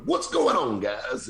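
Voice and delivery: MC crowd greeting. Retold or imitated. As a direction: hail the crowd over a mic. Working crowd with wireless mic.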